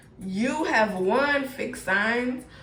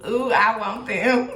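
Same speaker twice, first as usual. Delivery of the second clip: giggly, eager little coo; a client acted out as smitten, laughing; laughing mock swoon; 6 dB louder than usual. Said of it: "they're like".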